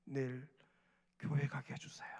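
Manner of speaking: soft, hushed plea under the blanket; whispered prayer. Retold or imitated. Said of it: "혼자 끙끙 앓으면서".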